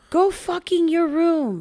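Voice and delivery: put-on high, slow toddler talk; Leo. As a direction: imitate a bossy toddler, drawing out the words. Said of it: "But in Leo talk".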